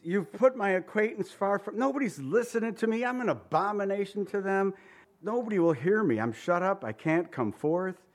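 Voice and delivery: mildly distressed, insistent protest; acted lament. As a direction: plead it as the abandoned psalmist. Paraphrasing the psalmist's complaint to God.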